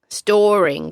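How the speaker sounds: mildly resigned single word; with a sigh. A narrator's reading. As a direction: sigh it out, admitting fault. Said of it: "Glenn says with a sigh".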